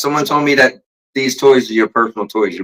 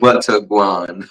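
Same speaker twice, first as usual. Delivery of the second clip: slow, lower Jamaican greeting; Jamaican accent; 5 semitones lower, much slower than usual. Shown as a demonstration. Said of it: "do the Jamaican accent".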